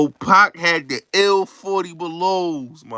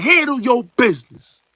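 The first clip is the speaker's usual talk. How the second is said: mock scream; 9 semitones higher, 5 dB louder than usual. A rapper screaming at him.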